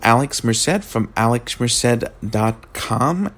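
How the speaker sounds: sleepy, slow just-woke-up voice; groggy. Real, not acted. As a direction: still half asleep, slow. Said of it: "sorry if I sound a little groggy".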